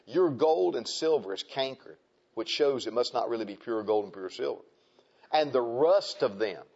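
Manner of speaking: measured King James reading; scripture reading. Acted. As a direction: read it like a solemn warning from the pulpit. Reads scripture.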